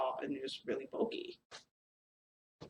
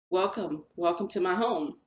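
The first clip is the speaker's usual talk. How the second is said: cheery welcome; 3 semitones higher, 4 dB louder than usual. Retold or imitated. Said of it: "he's all happy and cheery".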